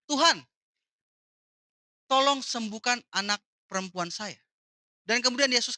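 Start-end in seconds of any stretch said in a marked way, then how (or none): 0.1-4.4 a loud cry of Tuhan, then the plea trailing back to normal; mother calling loudly to Jesus, begging. Acted. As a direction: call out to Jesus over the crowd. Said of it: "dengan suara yang keras".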